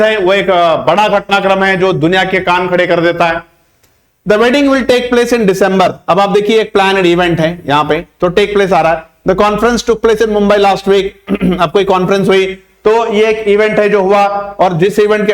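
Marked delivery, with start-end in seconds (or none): 4.3-5.9 slow example sentence. Shown as a demonstration. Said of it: "examples के जरिए मैं आपको समझाना चाहूंगा". 9.3-11.0 slow example sentence. Shown as a demonstration. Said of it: "examples के जरिए मैं आपको समझाना चाहूंगा".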